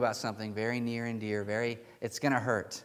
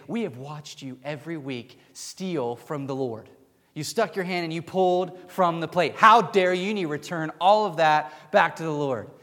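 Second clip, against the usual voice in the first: angry accusation; 4 semitones higher, 6 dB louder than usual. Retold or imitated. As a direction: imitate righteous fury, building louder and higher. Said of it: "they were so angry".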